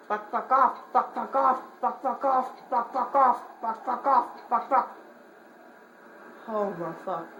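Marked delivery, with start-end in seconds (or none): 0.1-5.0 startled repeated curses; panicked yelling. Real, not acted. Player jump-scared by the monster, panicked yelling. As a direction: blurt it out in a fright.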